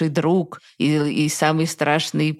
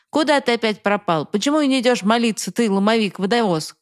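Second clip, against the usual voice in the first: angry call, higher pitched across the yard; father shouting; 5 semitones higher than usual. Acted. Father calling the vanished son to prayers, angry shout. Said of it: "слышу крик отца".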